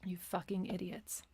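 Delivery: breathy whispered aside, no voice at all; whispered insult. Real, not acted. Vlogger muttering at critics after the drill, whispered. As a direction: hiss the insult under your breath.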